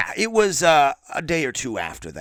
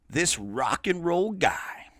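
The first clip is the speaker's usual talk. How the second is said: whisper; 4 dB quieter, much slower than usual. Real, not acted. Dramatic intro of rival.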